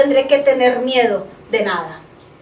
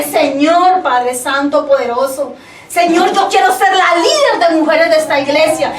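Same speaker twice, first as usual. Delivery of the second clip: authoritative prayer. Retold or imitated. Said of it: "con autoridad en mi boca".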